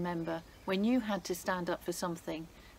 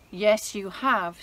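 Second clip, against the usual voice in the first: slow, loud and firm retort; firm accusation; 8 dB louder, slower than usual. Acted. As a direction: stand your ground. Esther confronts Haman.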